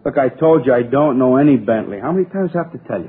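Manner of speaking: exasperated. Acted. Suspect answers repeated police questions, exasperated. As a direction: insist hotly, sick of being asked.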